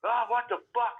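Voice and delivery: sudden high, loud exasperated yelp; frustrated outburst. Retold or imitated. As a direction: blurt it out, fed up at losing something. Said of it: "just been like".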